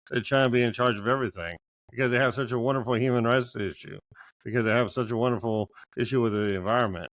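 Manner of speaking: dry mock praise; sarcastic. Real, not acted. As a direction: say it sarcastically, meaning the opposite. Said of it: "I was being sarcastic on both of those".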